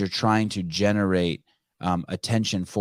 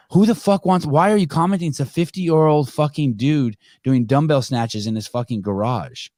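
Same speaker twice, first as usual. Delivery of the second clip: retold angry rant; 4 semitones higher than usual. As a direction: replay your own angry rant. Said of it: "I was pissed off".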